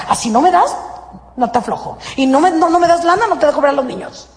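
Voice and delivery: a petulant ex-partner haggling, pitch jumping up; mock bickering spouse. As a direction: play a spiteful spouse trading favours. Couple bargaining, selfish love.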